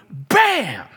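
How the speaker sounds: drawn-out punch on bam; slow bam. A narrator's reading. Preacher acting out the heavenly light, slow loud bam. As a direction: land it like a blow.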